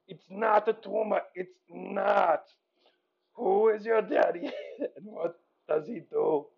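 put-on deadpan catchphrase in an Austrian accent; toned-down movie-hero impression; Arnold. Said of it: "here is Arnold".

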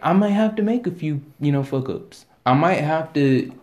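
hiccupping mid-sentence; speech broken by hiccups. Real, not acted.

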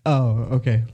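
normal talking voice

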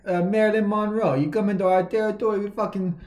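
put-on Italian accent. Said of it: "Italian accent".

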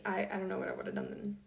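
rushed mumble with a numb mouth; words slurred by a numb mouth; mumbling. Real, not acted. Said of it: "which I realized I just did really bad".

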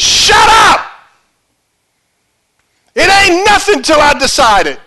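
high, screamed umpire's command; Bill Clem. Acted. Umpire silencing both arguing teams, screaming. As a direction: scream everyone down with total authority. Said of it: "He just screams at everybody".

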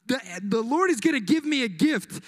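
mildly gushing, pitch lifted on the first words; excited. Acted. Mary hearing God will give her a gift, acted excitement. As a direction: play a touch of giddy excitement. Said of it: "she's so excited".

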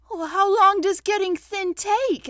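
high, loud, worried question; anxious. A narrator's reading. Pooh asking how long he's stuck, anxious. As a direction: ask anxiously. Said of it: "asked Pooh anxiously".

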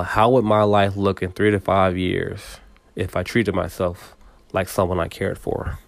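slow it down, word by word. Shown as a demonstration. Repeating the question slowly to listeners. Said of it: "a lot slower".

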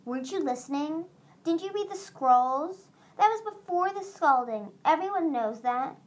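a friend teasingly imitating a pompous lecturer; stuffy scowling Starflight. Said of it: "adopted a stuffy, scowling voice".

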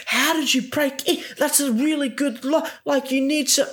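high, exaggerated put-on voice for Chris; a sarcastic voice sending up Chris; mocking Chris. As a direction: squeak it out like a baffled brother. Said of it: "Chris is like".

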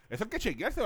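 yawning. Real, not acted. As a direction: yawn pulling the pitch up. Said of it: "ya van tres".

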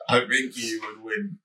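slow, drawn-out answer through a laugh; laughing concession. Real, not acted. Humouring co-host who asked who wins a fight, laughing. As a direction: give in slowly, laughing.

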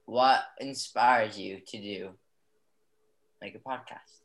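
a touch of formal host, slowing on the question; measured, lightly put-on interviewer delivery; mock interviewer. Guest restarts his question to the host, mock interviewer. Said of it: "we're gonna talk like that now".

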